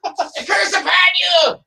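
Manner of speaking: high, slow shouted curse; dramatic shout. Acted. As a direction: bellow it like a stage wizard. Echoing the spell dramatically.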